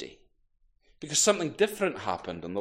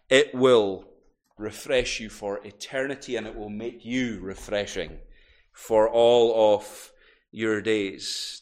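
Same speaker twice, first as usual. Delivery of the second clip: gentle promise; 6 semitones lower than usual. Acted. Jesus gently promises refreshment to the crowd. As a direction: draw them in tenderly.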